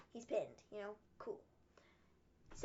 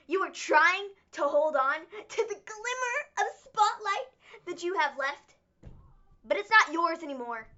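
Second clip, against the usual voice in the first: mock heated promo; 5 dB louder than usual. Acting out AJ's heated promo.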